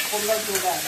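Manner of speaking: কুমড়ার জোগা said in Noakhali dialect, softly; কুমড়ার জোগা in Noakhali speech; Noakhali dialect word. Shown as a demonstration. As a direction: give কুমড়ার জোগা the local Noakhali sound. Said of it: "যেটাকে আমরা বলি কুমড়ার জোগা".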